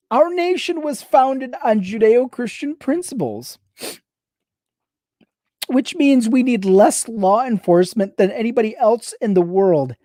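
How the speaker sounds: measured, deliberate read. Shown as a demonstration. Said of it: "let me read that again a little slower".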